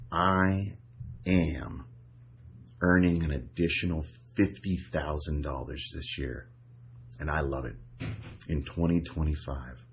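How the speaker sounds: firm, clear, emphasized affirmation; with authority. Shown as a demonstration. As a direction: state it like it's already true. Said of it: "Now, I want you to really say it with authority".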